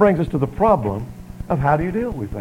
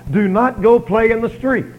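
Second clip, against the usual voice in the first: slow, higher, emphatic command; firm parent; 5 semitones higher, 5 dB louder, slower than usual. Acted. Parent telling child to stay out of street, firm command. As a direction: lay down the rule, word by word.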